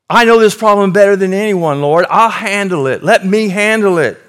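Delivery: impatient, rising self-important whine; mock the believer who won't wait on God; high, loud, hurried mock believer demanding fixes now; with an attitude. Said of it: "with an attitude".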